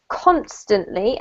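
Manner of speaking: constantly with CON stressed, rising slowly; stress on first syllable. Shown as a demonstration. Teacher modelling constantly for the student, first syllable stressed. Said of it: "emphasis on the first syllable".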